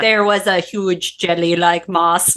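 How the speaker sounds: slow, badly faked Russian accent; attempted Russian accent. Trying to find Russian for co-host, slow botched accent. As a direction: labour through a shaky Russian accent. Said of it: "Russian is hard".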